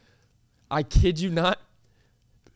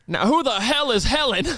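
higher-pitched imitation of an irate old man; loud, angry demand; 5 semitones higher than usual. Old customer at the restaurant counter, mock angry demand. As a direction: retell it as an indignant outburst. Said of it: "he said it loud".

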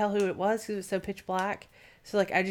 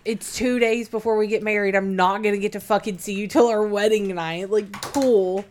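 louder exasperated complaint; 2 semitones higher, 5 dB louder than usual. Retold or imitated. Bride annoyed before the wedding, loud and exasperated. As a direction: vent it with frustration. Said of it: "And I'm like".

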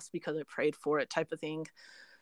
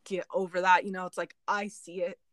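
shaky voice. Real, not acted. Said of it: "like, really shaky".

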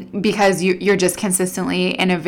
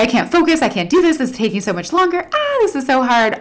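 high, fretful imitation of someone who can't cope; overwhelmed whining; 6 semitones higher than usual. Imitating a person overwhelmed by work alone, higher fretful whine. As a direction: pitch it up and fret like you're stuck.

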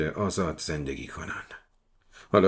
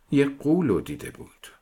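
put-on higher, childlike voice; little girl voice; 7 semitones higher than usual. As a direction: speak like a small serious girl. Little girl answers the detective.

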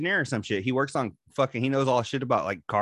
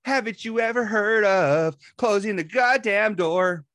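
a slow, higher mock scolding; lightly voiced coworker telling someone off; Carl Reinhardt at work; 9 semitones higher, 3 dB louder, slower than usual. A friend imitating his coworker scolding about the door, mild mock scold. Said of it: "that's fucking Carl Reinhardt at fucking work".

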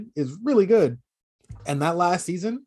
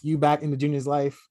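imitating Dexter. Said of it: "You sound like, Dexter".

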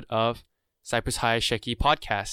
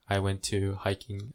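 nervous class president speech; 3 semitones lower, 3 dB quieter, slower than usual. Retold or imitated. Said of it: "You sound like like a s-, class presentation".

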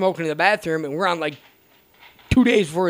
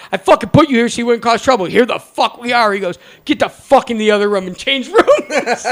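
retold scolding; 5 semitones higher, 7 dB louder than usual. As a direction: chew them out like a fed-up guard. Head guard scolding the boys.

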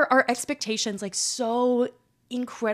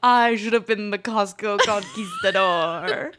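mock grand shout; slower than usual. Joking grand declaration, slowed.

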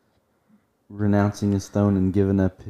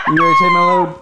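high, loud teasing come-on; sultry delivery voice; 8 dB louder, faster than usual. Pretend. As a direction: play it up like a seductive delivery. Mock sultry delivery role-play.

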